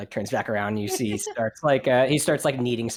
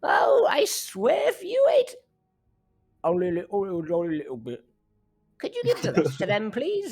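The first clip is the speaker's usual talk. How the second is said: pleading baker; 5 semitones higher than usual. Acted. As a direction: beg the cook nicely, pitched up.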